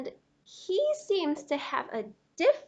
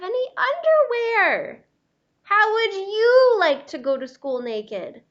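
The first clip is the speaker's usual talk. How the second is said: higher, louder, hammed-up plea; mock distress; 7 semitones higher, 8 dB louder than usual. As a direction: wail for clothes in pretend panic. Naked crayon pleading in embarrassment.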